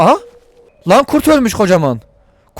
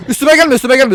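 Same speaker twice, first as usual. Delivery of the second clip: higher, louder frantic pleading; panicked plea; 6 semitones higher, 4 dB louder than usual. Real, not acted. Gamer pleading with a charging animal. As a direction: beg it to back off. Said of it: "repeats same words".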